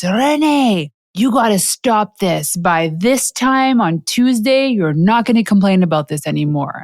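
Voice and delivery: put-on playful French mom accent, firm; mom's French accent. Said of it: "in her French voice".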